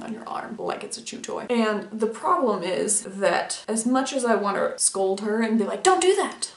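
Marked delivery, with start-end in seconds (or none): 5.8-6.5 a sharp high don't, half laughing; mock scolding. Owner scolding her biting puppy, a sharp mock no. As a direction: scold the dog but can't keep a straight face.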